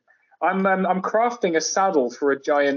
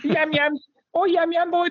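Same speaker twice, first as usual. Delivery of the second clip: much higher mock Black Country voice; Black Country accent; slower than usual. Explaining Yam Yams in a hammed-up Black Country accent. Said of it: "very Yam Yam type accent".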